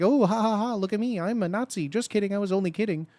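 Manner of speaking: mocking troll. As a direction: mimic a smug troll pretending it was a joke. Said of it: "You don't get to troll as like".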